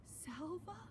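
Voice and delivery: breathy unvoiced whisper of a name. Old father whispers his lost son's name in a breathy whisper. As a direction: barely breathe the name in disbelief. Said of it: "he whispered".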